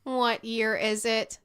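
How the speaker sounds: slow, even robot voice. Acted. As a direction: speak it like a calm machine. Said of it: "said the man who was a robot".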